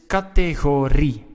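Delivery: categorie with the last syllable RI stressed. Shown as a demonstration. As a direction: land firmly on the final RI of categorie. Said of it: "You hear the stress, it's on ri".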